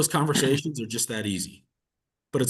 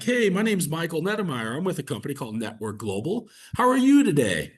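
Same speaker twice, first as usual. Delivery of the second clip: overly chirpy opener; 4 semitones higher than usual. Shown as a demonstration. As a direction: sing out the small talk like a cheesy cold caller. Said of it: "So if I called and I was like".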